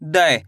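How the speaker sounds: "दै" as one syllable, sliding down low; ai-matra demonstration. Shown as a demonstration. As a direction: model "दै" with the ai vowel. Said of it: "दा को किसे पढ़ेंगे?". ("दै" का स्पष्ट उच्चारण, गिरते सुर में)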